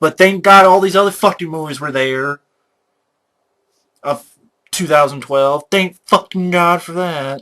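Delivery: angry, fed-up, pissed-off cursing rant. Speaker venting to the audience, angry. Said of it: "Sorry, I'm pissed".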